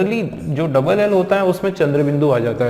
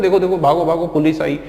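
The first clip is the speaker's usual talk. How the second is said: mock alarm; 3 semitones higher, faster than usual. Teacher imitating people fleeing the police, mock alarm. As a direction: lightly imitate people calling out to run. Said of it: "बोलते हैं".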